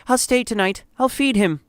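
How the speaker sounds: high, urgent mother's voice; pleading. A narrator's reading. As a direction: plead to stay with your child. Mother pleads to stay with son.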